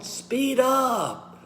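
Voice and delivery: high, urgent coaching push on SPEED UP; speed up cadence. Shown as a demonstration. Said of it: "you need to use your cadence".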